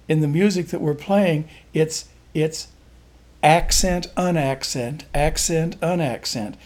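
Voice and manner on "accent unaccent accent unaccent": two-beat lilt, strong on "accent" and weaker on "unaccent"; alternating accent. Shown as a demonstration. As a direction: hit "accent", ease off on "unaccent". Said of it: "It's not one, two, three, four".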